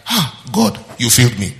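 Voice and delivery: a hint of a whiny believer; mock the complaint lightly; mock complaining believer. Pastor mimicking a believer blaming God. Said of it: "you don't know what you just said".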